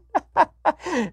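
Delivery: high, cackling fake laugh of the wife; imitated helpless laugh. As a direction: mimic her giggling fit. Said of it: "Like, literally laughing".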